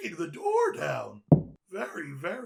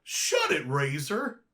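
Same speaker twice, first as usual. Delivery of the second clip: angry snap; 3 semitones lower, 4 dB louder than usual. Acted. Snapping at a teasing friend.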